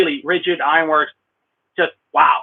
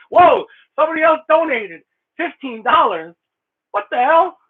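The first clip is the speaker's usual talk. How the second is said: surprised whoa; 9 semitones higher, 3 dB louder than usual. Real, not acted. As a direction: pitch jumps up in real surprise. Surprise at a new donation.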